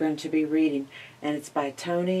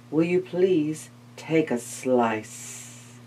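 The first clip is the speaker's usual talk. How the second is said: cunning spider; 5 dB louder than usual. Acted. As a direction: flatter her, sweet and sly.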